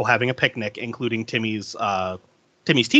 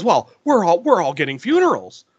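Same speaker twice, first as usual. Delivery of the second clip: mock flustered dad, pitched up; stammering, unamused; 5 semitones higher, 3 dB louder than usual. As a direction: stumble and restart in mild protest. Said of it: "Dad is just stammering".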